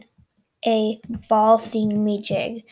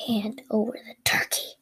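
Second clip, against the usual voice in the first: hushed threatening whisper; whispered demand; 2 semitones lower, 6 dB quieter than usual. Acted. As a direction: hiss the demand. Callie demands the turkey.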